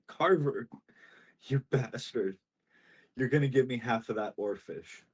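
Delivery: lightly acted upset, a little cry in it. Fisherman blaming Carver for his sinking ship, mildly tearful complaint. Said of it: "a little cry".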